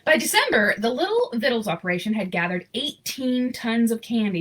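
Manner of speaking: lively storybook reading voice; story narration. A narrator's reading. Reading a Christmas picture book aloud, storyteller voice. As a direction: read the story warmly to an audience.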